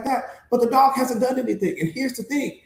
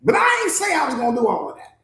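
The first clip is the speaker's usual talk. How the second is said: protesting dog. Acted. Dog gently letting down its trusting owners, mildly protesting. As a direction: politely push back as the reluctant guard dog. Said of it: "The dog is like".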